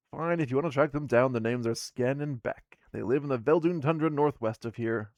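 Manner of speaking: grudging dwarf woman. Acted. Dwarf woman sending players to tundra, grudging loud voice. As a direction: grudgingly point them northwest.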